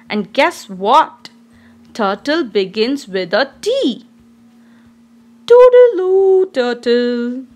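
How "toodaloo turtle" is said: cheerful goodbye. Acted. Saying goodbye to turtle.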